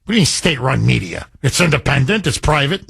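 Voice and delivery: mock liberal objection. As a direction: play the naive objector, lightly. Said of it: "many liberals are gonna say".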